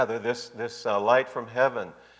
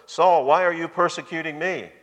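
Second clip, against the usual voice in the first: emphatic question; 4 semitones higher, 3 dB louder than usual. Retold or imitated. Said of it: "That's very emphatic there".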